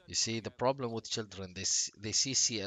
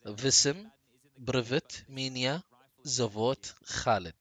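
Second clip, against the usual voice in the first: careful attempt; slower than usual. Shown as a demonstration. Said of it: "I will try".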